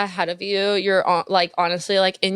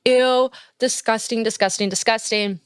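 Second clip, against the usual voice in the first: disgusted; 3 semitones higher than usual. Real, not acted. Reacting to toxic partner story.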